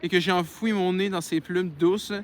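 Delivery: measured read-aloud voice; story narration. Acted. Reads a novel aloud.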